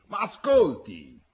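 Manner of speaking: slow, high, loud repeated call, pleading; shouted again. A narrator's reading. Giacco shouting again after Pietro, slow, loud and pleading. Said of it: "Giacco gli gridò dietro".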